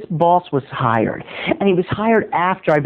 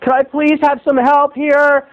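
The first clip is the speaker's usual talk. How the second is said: higher, slow pleading; pleading waiter; 9 semitones higher, slower than usual. Retold or imitated. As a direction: beg for help politely. Acted plea to boss.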